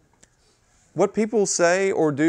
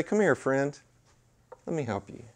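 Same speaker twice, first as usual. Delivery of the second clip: soft, kindly invitation; gentle offer of help; 6 dB quieter than usual. Pretend. Host to a blind guest who needs guiding, gentle offer of help.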